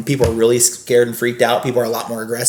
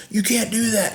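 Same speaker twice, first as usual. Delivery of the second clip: mock whiny protest; 9 semitones higher, 6 dB quieter than usual. Angry friend confronting him.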